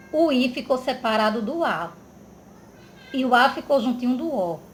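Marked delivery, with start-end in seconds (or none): none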